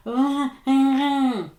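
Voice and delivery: high, loud "ah ah ah" at the dog; exasperated owner shouting at the dog; frustrated scolding. Retold or imitated.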